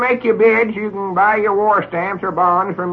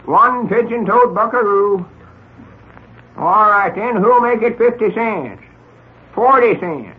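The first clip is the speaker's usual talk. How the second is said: auctioneer; 2 semitones higher than usual. Acted. Auctioneer calling bids to crowd.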